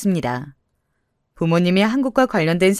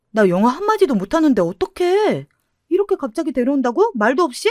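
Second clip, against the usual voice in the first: flustered friend; 4 semitones higher than usual. Acted. Friend panics over foreigner.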